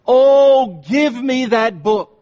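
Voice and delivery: high, loud fervent cry; cried out. Retold or imitated. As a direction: cry out for the book with longing. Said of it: "he cried out in his sermon".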